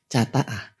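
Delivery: normal talking voice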